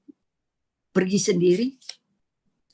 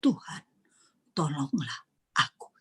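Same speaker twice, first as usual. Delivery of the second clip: short desperate plea; 5 semitones lower, 7 dB quieter than usual. Shown as a demonstration. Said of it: "pendek sekali".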